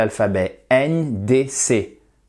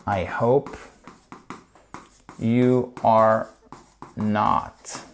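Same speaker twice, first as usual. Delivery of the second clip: word by word; much slower than usual. Shown as a demonstration. Teacher repeats the English phrase for learners, slowly word by word. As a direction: spell out YOU ARE in full, separately.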